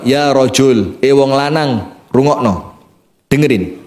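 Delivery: low, calm and grave; wise Umar. Acted. Umar calmly telling the man to listen, low and grave. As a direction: speak with patient authority.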